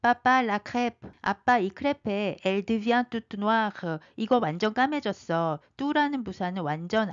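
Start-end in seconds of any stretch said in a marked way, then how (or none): 0.0-2.4 put-on a child's sudden cry; little cub shouting; baby bear cries out. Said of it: "아기 곰이 갑자기 외칩니다". 2.4-4.0 each syllable drawn out slowly; slow French model; slow teaching read. Shown as a demonstration. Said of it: "slow teaching read".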